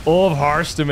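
excited shout. Real, not acted. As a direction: yell the blink as it lands. Stalkers blink into the army.

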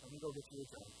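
a tired, quick sigh of a reply; weary dad. Retold or imitated. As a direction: lightly sound like a worn-out dad fetching a drink. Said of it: "I'm like".

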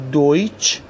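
دویچ ending in a "ch" sound; TSCH ending. Shown as a demonstration. Teacher showing the last combination, دویچ as "doytch".

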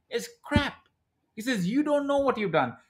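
lightly voiced blunt consultant. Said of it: "he basically says".

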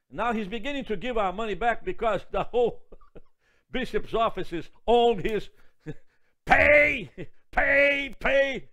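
laughing through, rising loud pay pay. Real, not acted. Preacher laughing about the man forced to pay back. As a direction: laugh as you hammer the word. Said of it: "laughing at the debtor".

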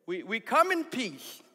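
slow, careful mock address to the chief; a first, milder slow take of the missionary's line; slowed voice for foreigners. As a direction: spell it out slowly like talking to a non-English speaker. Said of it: "Why do you change your voice".

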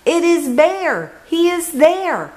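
very high, joyful bird cry; excited squawk. Acted. Birds spotting Bear from the sky, squawking with joy. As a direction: shout the good news from the sky. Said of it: "all squawk from the sky".

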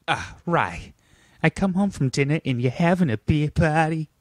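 put-on dad's Massachusetts accent. Dad walks into kitchen after dinner, accented mock indignation. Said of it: "Is that what your dad sounds like?".

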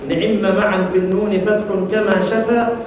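measured chanted recitation of a poem line; verse recitation. Shown as a demonstration. Teacher reciting the verse to his students in a measured chant.

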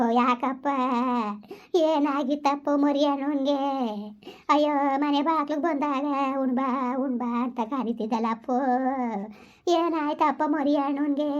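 slow mournful wail, stretching each word; keen slowly like a village mourner; drawn-out lament. Acted. Villager grieving over Mariyanna at the doorstep, slow lament.

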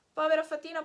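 povera fatina cried out loud and high; anguished cry. Acted. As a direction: wail it out. Pinocchio laments, repeated. (povera fatina gridato con dolore)

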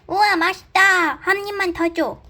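high, delighted little bunny; excited bunny voice. Pretend. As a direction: squeal with joy at the taste. Bunny tastes the food.

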